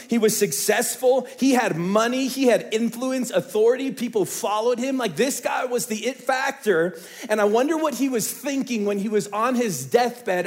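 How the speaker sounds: loud, high, driving sermon; full-force sermon climax; preaching at full force. Acted. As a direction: preach it to the back row.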